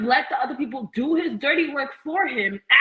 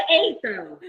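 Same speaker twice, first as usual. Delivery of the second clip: laughing; 4 semitones higher than usual. Real, not acted. Laughing at comment.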